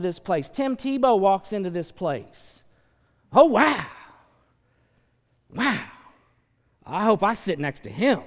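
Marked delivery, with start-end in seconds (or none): 3.3-8.2 loud, starstruck fan gasp. Retold or imitated. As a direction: gush like a fan spotting a star. Starstruck fan seeing Tim Tebow.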